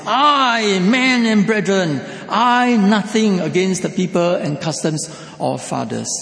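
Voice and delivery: loud, high, emphatic declaration; emphatic Paul. Retold or imitated. Preacher voicing Paul addressing the Jews, loud and emphatic. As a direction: proclaim it like Paul defending himself. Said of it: "He was very emphatic".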